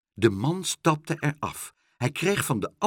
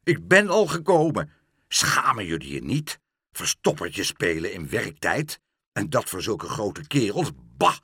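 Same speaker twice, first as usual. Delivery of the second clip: angry scolding; 4 semitones lower than usual. Acted. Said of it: "riep de parkmeester woedend".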